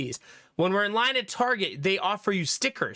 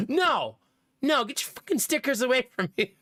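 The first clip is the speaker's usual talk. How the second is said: mock indignant, raised-pitch refusal; toddler refusal; 5 semitones higher than usual. Toddler rejecting the cashier's stickers, mock indignant. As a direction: imitate a rude toddler pushing someone off. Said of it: "puts his hand in your face".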